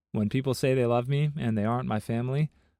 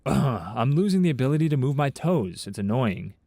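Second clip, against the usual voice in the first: annoyed complaint; 4 dB louder than usual. Acted. Acted casual complaint about a symptom.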